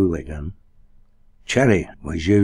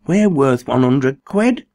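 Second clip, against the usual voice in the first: slow, loud, dazed wonder; 7 semitones higher, 6 dB louder than usual. A narrator's reading. Cherry realizing their fortune, dazed. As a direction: say it like you can't believe it. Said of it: "he said dazedly".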